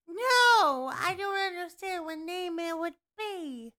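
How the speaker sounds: inhaled ditzy-blonde voice; playful alter ego, unlike your own voice; put-on character voice. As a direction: play a dumb blonde, air sucked in. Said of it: "I could talk like this".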